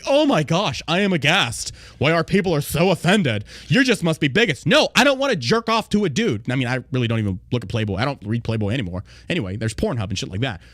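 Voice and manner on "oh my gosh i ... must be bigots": mock pearl clutching. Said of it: "pearl clutch and say".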